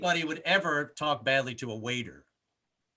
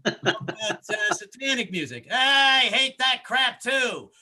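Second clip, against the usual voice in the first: cab driver; 8 semitones higher, 3 dB louder, slower than usual. Retold or imitated. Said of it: "It's like".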